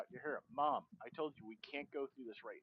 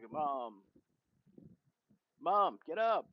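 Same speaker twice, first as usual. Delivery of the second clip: acted scream; 3 semitones higher, 8 dB louder, much slower than usual. Daughter screaming at her fallen mother to get up, loud. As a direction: yell her awake.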